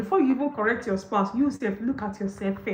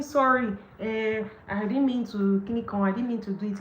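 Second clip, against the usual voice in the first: half-baked apology. Retold or imitated. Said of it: "Don't give half-baked apology".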